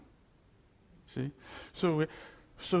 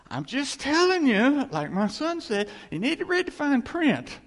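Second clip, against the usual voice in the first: higher, louder pressing the point; emphatic preaching; 8 semitones higher, 5 dB louder than usual. Acted. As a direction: push the fine print home.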